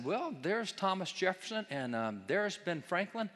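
slow, stretched-out imitated groping for names; hesitant recall. Lecturer imitates law students naming signers, hesitant recall. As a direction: draw out each find, then stall.

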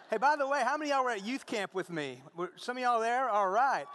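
high, loud, upbeat call to the crowd; rally the room with energy; excited call-out. Real, not acted. Preacher calling out to the congregation, loud and upbeat.

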